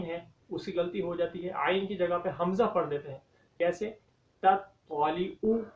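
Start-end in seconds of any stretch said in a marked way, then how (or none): 4.4-5.6 तत्तालिउ with a hamza instead of ain at the end, slow; wrong hamza sound. Shown as a demonstration. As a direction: show the mistake in तत्तालिउ. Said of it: "ऊ में हमज़ा की sound आई है". (तत्तालिउ में आइन की जगह हमज़ा की गलत आवाज़)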